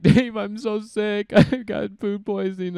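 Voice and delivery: high, loud, slow laughing plea; laughing excuse. Retold or imitated. Caught by roommate, pleading sick through laughter. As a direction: laugh it out while begging off. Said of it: "I'm, like, crying".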